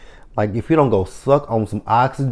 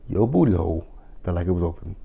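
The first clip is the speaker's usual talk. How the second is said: fast, softer deadpan mock; mocking repeat; 3 semitones lower, 7 dB quieter, faster than usual. Mocking the client's dentist story, deadpan disbelief. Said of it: "repeated mocking".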